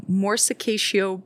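"morsicatio" spoken slowly and hesitantly; unsure pronunciation. Shown as a demonstration. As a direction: sound out "morsicatio" carefully. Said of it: "I also don't know how to pronounce it".

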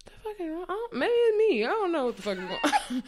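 high, loud baffled rant breaking into a laugh; exasperated outburst. Retold or imitated. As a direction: throw up your hands in disbelief. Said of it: "I was kinda like".

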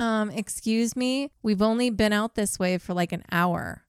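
lightly voiced indignant friend; Becky voice. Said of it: "I'm gonna try and be Becky".

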